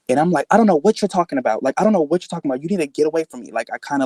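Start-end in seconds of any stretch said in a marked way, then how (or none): 0.5-3.5 higher, hurried denial; retold brush-off, pitched up and insistent; defensive. Telling the man to get away, defensive. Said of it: "like, get defensive".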